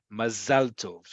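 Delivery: "Mazal tov" with stress on the "-zal"; modern Hebrew pronunciation. Shown as a demonstration. Teacher repeats "Mazal tov" for learners, stressed ma-ZAL TOV. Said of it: "this is pronounced".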